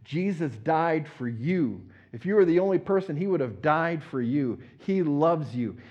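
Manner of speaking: slow, gentle, heartfelt appeal; sincere and slow. Shown as a demonstration. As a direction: speak it to one person, sincerely. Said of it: "To look at somebody and say".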